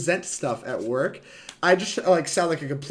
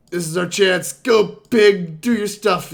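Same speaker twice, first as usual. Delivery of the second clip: loud, higher cheer for the pig; rally the little boar like a coach; excited cheering; 5 semitones higher, 9 dB louder, slower than usual. Real, not acted. Cheering on a card creature.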